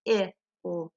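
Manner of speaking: "T-I-L-T" split into separate sounds, one per tap; tapping out sounds. Shown as a demonstration. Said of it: "Let's tap the base word".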